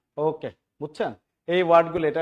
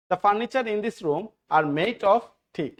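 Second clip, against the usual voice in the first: slow dictation; 3 semitones higher, much slower than usual. Shown as a demonstration. Teacher reads example sentence slowly.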